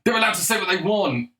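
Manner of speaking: high sneering mimic of Marc Maron; mocking imitation. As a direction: repeat his words in a high, scornful parody. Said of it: "He said".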